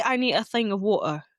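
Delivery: lightly put-on British English; light British imitation, teasing; mock British accent. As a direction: quote it with a hint of British. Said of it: "British people don't even say".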